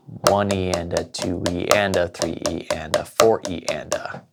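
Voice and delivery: steady rhythmic count of "One E and a"; counting one measure. Shown as a demonstration. Drum teacher counts off one measure of sixteenths, counting in rhythm. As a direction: count evenly in time through "four E and a". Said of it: "let's just do one measure of that".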